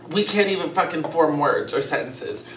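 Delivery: numb tongue, slurred words; numb from the dentist. Real, not acted. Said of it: "My tongue is numb".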